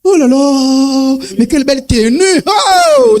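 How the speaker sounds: hammed-up laughing flattery; laughing mock admiration. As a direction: gush over the outfit while cracking up.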